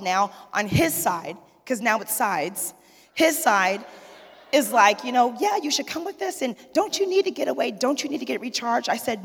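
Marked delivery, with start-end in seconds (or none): 5.4-8.9 mock eager, higher ladies' voices; hammed-up excited women; eager church ladies. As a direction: imitate the ladies pushing her to go.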